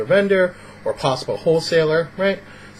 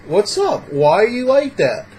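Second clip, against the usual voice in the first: needling, pitched-up questions; trolling; 6 semitones higher, slower than usual. Acted. Rude guy trolls Max in front of the others, needling. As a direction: goad him with pushy little jabs. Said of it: "you're trolling him to his face".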